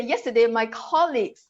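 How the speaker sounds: "colleagues" stressed on the first syllable; correct word stress. Shown as a demonstration. Teacher modelling clear English, first-syllable stress on "colleagues". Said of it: "So you should say".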